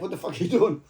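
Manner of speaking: retold conductor line, laughing through it; amused imitation of an angry conductor; laughing mock demand. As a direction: laugh while barking the question. Conductor confronting him, retold.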